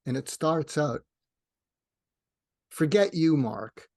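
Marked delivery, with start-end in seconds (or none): 2.7-3.9 mock-angry, louder, dropping on the name; retold angry dismissal. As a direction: imitate someone telling him off. Quoting woman's hostile reply.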